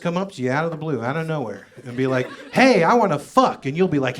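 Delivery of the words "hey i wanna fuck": mock wife. Wife voiced in story.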